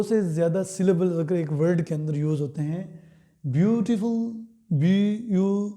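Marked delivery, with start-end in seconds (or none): 3.4-5.7 slow syllable demo. Shown as a demonstration. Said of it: "तीन syllables use हो रहे हैं".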